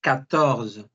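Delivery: Catorce said katorz, QU as K; French quatorze. Shown as a demonstration. Teacher models French fourteen: Catorce as katorz. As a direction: Catorce with a hard K and silent final E. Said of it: "la Q y la U suena como una K".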